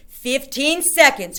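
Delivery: slow, high, loud witch countdown; witch crying out. A narrator's reading. Grand High Witch counting down to the witches. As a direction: draw it out with glee. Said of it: "cried the Grand High Witch".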